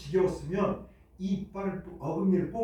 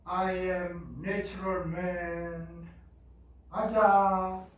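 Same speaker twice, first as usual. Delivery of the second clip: mock TV hermit voice; much slower than usual. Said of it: "나만 산속으로 가서".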